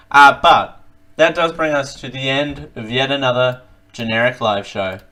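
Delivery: chewing noisily while talking; mouth full. Real, not acted. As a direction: talk through a mouthful of chips. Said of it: "I'm talking with my mouth full".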